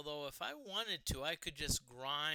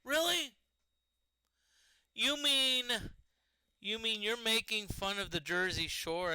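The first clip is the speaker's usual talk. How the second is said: incredulous; 5 semitones higher, 6 dB louder than usual. Retold or imitated. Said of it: "I'm like".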